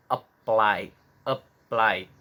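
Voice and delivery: "apply" with PLY stressed; stress on second syllable. Shown as a demonstration. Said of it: "di suku kata kedua". (tekanan pada PLY di "apply")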